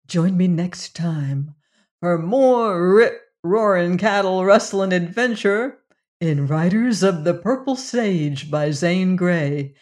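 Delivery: slow, showy announcer sign-off; radio host outro. Acted. Host signing off the show, announcer style. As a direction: sell the next episode.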